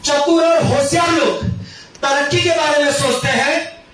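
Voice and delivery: rhythmic stage recitation, rising phrase ends; motivational recital. Acted. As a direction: deliver it like a closing slogan. (मंच से नारे जैसा पाठ)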